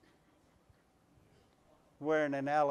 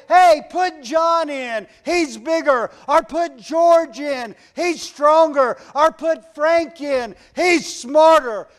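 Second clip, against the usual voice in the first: slow, drawn-out passing of the buck; slow mock excuse-making; 10 semitones higher, 15 dB louder, slower than usual. Timid player dodging the game, slow mock excuses. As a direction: hand the job to someone else, slowly. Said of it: "It's not time to say".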